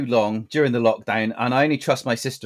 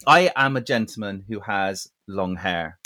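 slow, measured speech, pitched low; mock-formal gentleman; 3 semitones lower than usual. Rebellious chap explains his long hair to listeners, mock-formal. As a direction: make a solemn little declaration, unhurried.

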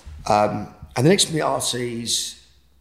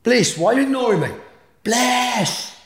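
much higher, louder call to wife; 14 semitones higher, 7 dB louder than usual. Retold or imitated. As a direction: call her name, hurt at being ignored. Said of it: "Now I'm upstairs".

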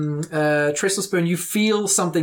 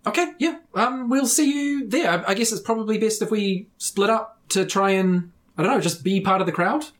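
nervous agreement; 6 semitones higher than usual. Acted. GM voices two nodding characters.

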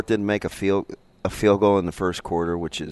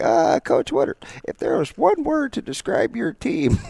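mock reporter; 14 semitones higher than usual. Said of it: "what did Coach Woodard say? You're like".

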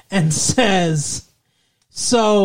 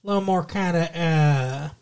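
Texas accent; 3 semitones lower than usual. Shown as a demonstration. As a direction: say the words hard, Texas style. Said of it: "Texas is a little more like this".

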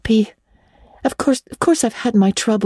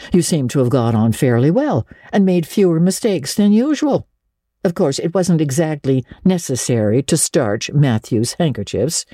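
dry, lower, mildly sarcastic; a lightly voiced older woman needling; sarcastic Marilla; 5 semitones lower than usual. Marilla teases Anne about the pie, dry sarcasm.

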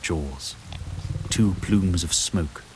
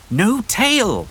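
much higher, loud alarmed cry; alarmed shout; 5 dB louder than usual. Acted. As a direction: yell a warning mid-fight. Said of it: "she shouted in wyvern, alarmed".

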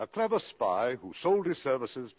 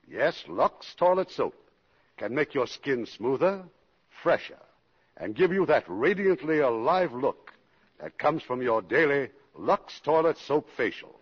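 commercial pitch; 4 dB louder than usual. Acted. Host reads Lux commercial.

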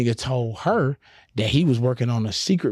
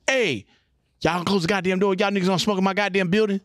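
higher, forceful scolding as the irate boss; pitched-up, indignant order from the big man; acted angry boss; 9 semitones higher than usual. Studio boss scolds smokers at his door, angry.

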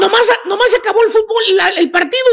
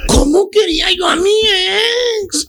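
sighing. Acted. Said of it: "Suspirando te dice".

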